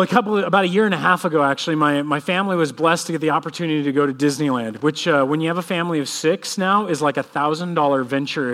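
ordinary talk, nothing marked

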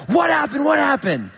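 alarmed repeated question. Retold or imitated. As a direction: play the rattled driver, pitch jumping up. Alarmed boat driver runs over.

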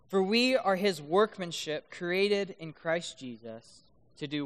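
slow, measured Bible reading; scripture reading. Real, not acted. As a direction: read the verse out deliberately. Reads the scripture aloud.

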